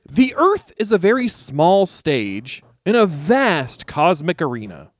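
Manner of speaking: slow, grand quote reading; lightly voiced Sagan awe; Carl Sagan quote. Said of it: "a quote from Carl Sagan".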